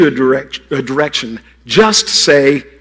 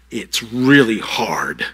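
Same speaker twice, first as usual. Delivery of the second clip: whisper; 5 semitones lower, 3 dB quieter, much slower than usual. Acted. Preacher to children, whisper.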